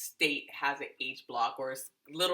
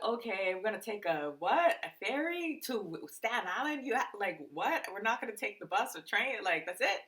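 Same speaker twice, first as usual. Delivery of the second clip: incredulous; 4 semitones higher, 4 dB quieter than usual. Retold or imitated. Retold disbelief at taking a ferry.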